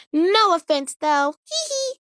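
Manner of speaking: high, playful "no offense" ending in a giggle; cheeky disclaimer. Real, not acted. To her viewers, a cheeky giggling no offense. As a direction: tease them, then giggle it off.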